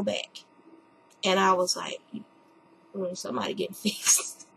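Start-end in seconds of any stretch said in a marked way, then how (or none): 2.9-4.5 laughing. Real, not acted. Wry laughing aside.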